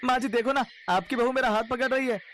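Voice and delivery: a sneaky milkman playing innocent to the mother-in-law; sly milkman voice.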